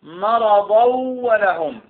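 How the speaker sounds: "مرضا" said "maradaw", nun merged and held into "ولهم"; slow linked recitation, long humming glide from "مرضا" into "ولهم"; fatha tanween linked. Shown as a demonstration. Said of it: "تنوين ماذا؟ الفتح".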